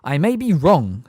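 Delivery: pleasant. A narrator's reading. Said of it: "said Dumbledore pleasantly".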